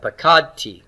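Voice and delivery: "pakad T" with weight on KAD; stress on root two. Shown as a demonstration. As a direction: model "pakad T" as pa-KAD-tee. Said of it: "the accent is on root two".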